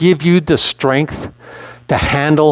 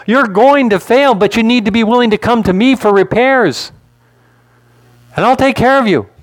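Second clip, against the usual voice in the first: higher, insistent voice of God; God addressing Joshua; 6 semitones higher than usual. Acted. God telling Joshua to come for repairs, insistent. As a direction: press each point home as God. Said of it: "God is telling Joshua".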